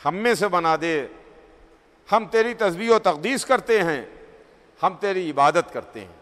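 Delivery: lightly voiced angels, sinking into a quiet appeal; angels' pleading reply. Angels offer themselves to God, subdued plea. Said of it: "جواب میں ایک دوسری آواز آئی".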